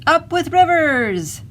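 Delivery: high, loud, drawn-out hoot; hooting cheer. A narrator's reading. Duck-billed dinosaurs cheering their river, hooting. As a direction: hoot it out like a herd's rallying cry. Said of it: "And they hooted".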